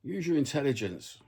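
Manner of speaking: exasperated inner voice. Retold or imitated. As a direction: sigh it out like your own brain scolding you. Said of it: "my brain just goes".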